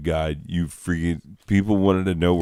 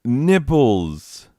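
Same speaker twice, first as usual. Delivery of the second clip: higher-pitched, bewildered irritation; comic frustration at a computer gone wrong; flustered exasperation; 6 semitones higher, slower than usual. Real, not acted. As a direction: lose your place and grumble about it. Cat has messed up the screen.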